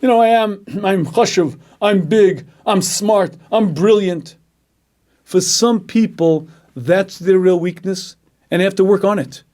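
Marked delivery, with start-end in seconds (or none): 0.0-4.4 lightly voiced puffed-up braggart, with a laugh; preacher mocks an arrogant man, mild smug boasting. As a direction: strut it: a smug boaster who laughs at you. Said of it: "is arrogance".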